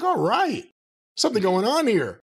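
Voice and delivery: high, bright mock-hopeful exclamation; recalling his hope during the squash win, perked up; hopeful excitement. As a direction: perk right up as if the show finally clicked. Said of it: "I'm like".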